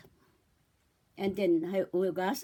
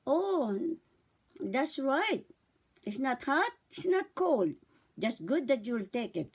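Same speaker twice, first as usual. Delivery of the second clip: put-on talking to a baby; slower than usual. Shown as a demonstration. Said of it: "tiyak nyo".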